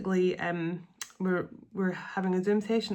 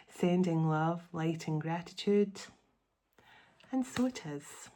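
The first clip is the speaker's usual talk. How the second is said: prayer invocation. Acted. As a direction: pray it gently and reverently, line by line. Invokes archangels before reading.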